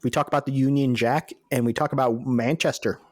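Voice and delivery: lightly voiced, badly faked British accent; mock British accent. Co-host listing British topics for laughs, badly faked British accent. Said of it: "two guys with accents just like ours".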